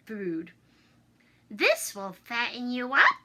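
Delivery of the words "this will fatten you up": sly and sweetly sinister. Acted. Old woman slyly feeding the hungry children, sly. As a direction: coax it with a hidden threat. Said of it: "she said slyly".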